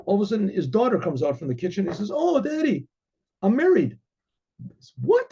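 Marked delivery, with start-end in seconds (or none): 2.1-4.0 put-on much higher, naive girl voice; girlish daughter. Simple daughter tells father. 5.0-5.3 high, sharp shocked yelp; father stunned by his daughter; shocked what. Acted.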